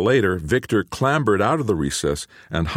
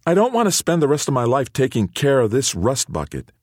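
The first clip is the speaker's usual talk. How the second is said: blurted out; 7 semitones higher than usual. A narrator's reading. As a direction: let it spill all at once. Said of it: "Theo blurted".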